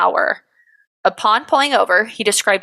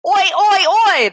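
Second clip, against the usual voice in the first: high, loud Aussie oi oi oi; Australian oi; 11 semitones higher, 3 dB louder than usual. Shown as a demonstration. Podcast host showing an Australian accent, loud Aussie chant. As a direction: belt an Australian oi. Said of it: "That's Australian".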